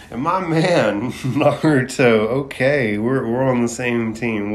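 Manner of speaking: laughing fan cheering on the hero; laughing excitement. Real, not acted. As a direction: cheer him on through laughter.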